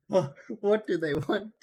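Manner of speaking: "What" drawn out slowly with a rising end; slow mock plea. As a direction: plead slowly like a scared victim.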